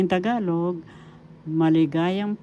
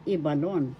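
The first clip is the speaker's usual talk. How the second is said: "Ibalon" with the accent on the opening "I"; accent the "I" that begins "Ibalon"; stress on first syllable. Shown as a demonstration. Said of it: "syllable is where the accent is".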